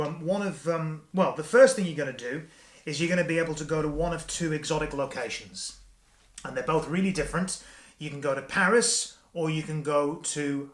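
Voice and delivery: cheerful performer addressing his wife; upbeat magician patter. Acted. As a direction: sell the trip to your wife like a holiday rep. Presents trick as travel rep.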